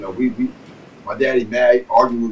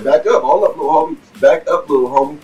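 louder, higher back-up-little-homie; warning older guy; 5 semitones higher, 4 dB louder than usual. Retold or imitated. Older guy warning the teen off the wet cigarette, loud and high. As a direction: stop the kid, half laughing, loud. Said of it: "He said".

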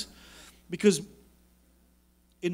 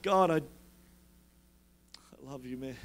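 very soft, low murmur; intimate talk to God; 6 semitones lower, 7 dB quieter, faster than usual. Acted. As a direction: say it privately to God, hushed and low. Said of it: "that's how I talk to God".

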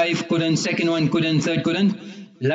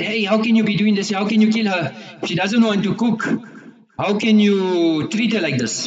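higher-pitched, mildly acted outrage; retold indignant protest; 3 semitones higher than usual. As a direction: protest as a shocked uncle, lightly voiced. Uncles protest at the killing.

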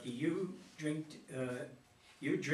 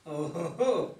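Santa laugh; 5 semitones higher, 8 dB louder, slower than usual. Acted.

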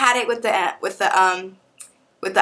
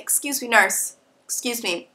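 drugged out; 3 semitones higher than usual. Retold or imitated. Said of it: "I sounded more drugged out".

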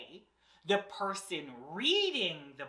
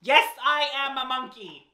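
monkey voice; 2 semitones higher, 5 dB louder than usual. Pretend. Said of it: "I have a monkey voice".

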